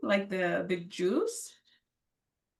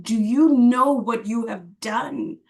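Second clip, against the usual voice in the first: louder, slow mock scolding; retold yell; 6 dB louder, slower than usual. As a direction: quote the angry teacher with some weight, drawn out. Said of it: "he started to yell at me".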